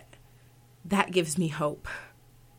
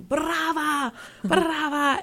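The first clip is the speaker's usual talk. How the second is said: high-pitched imitated crowd cries of brava; mock cheering; 10 semitones higher, much slower than usual. Singer imitates the applauding audience, mock cheering. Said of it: "They're yelling".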